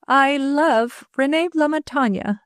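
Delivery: trembling, slow and careful; shaky voice. Acted. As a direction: fight to keep the voice steady. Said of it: "her voice steady, it shook".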